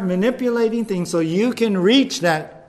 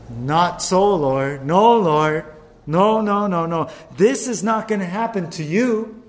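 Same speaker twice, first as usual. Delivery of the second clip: louder, insistent denial; Peter protesting; 5 dB louder than usual. Acted. Peter rebukes Jesus about his death, loud and insistent. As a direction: refuse it with rising heat. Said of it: "took Jesus aside and said".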